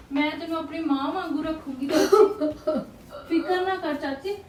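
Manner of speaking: half laugh, half sob, comforting her; laughing through tears. Acted.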